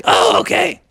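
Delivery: high cartoon mother voice; high-pitched, scratchy mom frog. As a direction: offer help in a squeaky voice. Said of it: "She's like".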